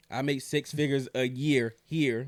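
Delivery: slowly, each word placed with care; slow down and get it right this time; slow careful retake. Real, not acted. Guest carefully redoing the line he tripped on, slow. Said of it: "the tongue twister right there".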